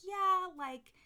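high mocking voice, eager then flat; mocking past self. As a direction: send up your old self, high and loud. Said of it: "I used to be like".

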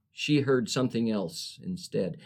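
rhythmic, cadenced poem recital; poem reading. Acted. Poet reading her drive-thru poem to host, cadenced. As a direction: lean into the rhyme and rhythm.

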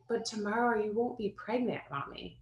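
son's voice. Retold or imitated. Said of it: "he's like".

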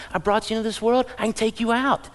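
Bill Cosby quote. Retold or imitated. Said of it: "In the words of Bill Cosby".

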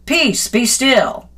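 slow, calm and steady; calm command. Retold or imitated. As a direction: say it slowly to calm the storm. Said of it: "And then he's like".

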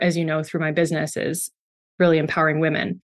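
sniffly after crying. Real, not acted. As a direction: talk with a runny nose from crying. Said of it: "I'm sniffly 'cause I've been crying".

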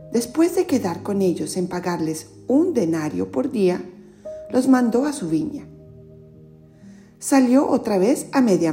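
storyteller reading scripture; Gospel reading. Acted. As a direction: clear read-aloud narration. Reads the Gospel aloud.

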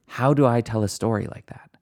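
hushed whisper, wondering to yourself; whispered inner thought. Acted. Speaker voices a curious inner question, whispered. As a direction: breathe it like a secret realisation.

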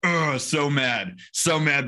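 mock sulky clerk. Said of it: "The dude was just like".

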